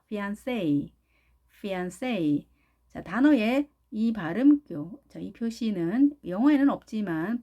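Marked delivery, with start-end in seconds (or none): 0.1-2.5 fiancé as fee-ahn-SAY; stress on last syllable. Shown as a demonstration. Teacher repeats for learners, careful fiancé ending in SAY. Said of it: "전혀 다르죠".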